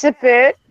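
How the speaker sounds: "a boot" with an oo vowel; mock Canadian pronunciation. Canadian playing along with the stereotype, "a boot" with oo. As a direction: play up "a boot" as Canadian about. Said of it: "say a boot instead of about".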